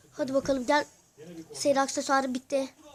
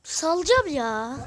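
annoyed; 3 semitones higher, 5 dB louder, slower than usual. Real, not acted. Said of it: "sinirlendim bak".

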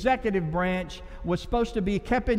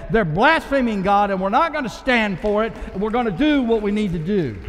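defiant declaration; 4 dB louder than usual. Acted. Voicing modern Davids declaring.

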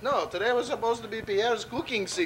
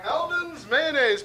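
ad announcer voice; 4 semitones higher, slower than usual. Acted. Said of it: "I'm out of character".

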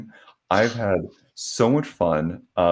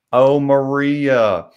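loud, high, drawn-out Southern drawl; hammed-up imitation of a thick Southern accent; 6 semitones higher, 7 dB louder, much slower than usual. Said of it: "had this just thick Southern accent".

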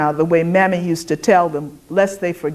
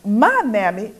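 stumbling, slow, higher stammer; sputtering; 6 semitones higher, 3 dB louder than usual. A narrator's reading. The white woman sputtering at Dessa, flustered stammer. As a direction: trip over the words, flustered. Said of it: "the white woman sputtered".

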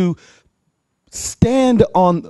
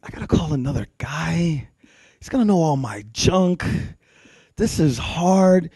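reluctant complaint; 4 dB quieter than usual. Acted. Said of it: "And I'm like".

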